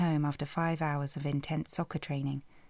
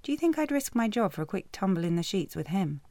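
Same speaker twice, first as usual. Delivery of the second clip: insulted; 4 semitones higher than usual. Acted. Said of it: "insulted by the insinuation".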